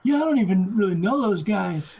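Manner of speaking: begging for his life. Retold or imitated. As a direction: play along as the pleading victim. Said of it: "begging for his life".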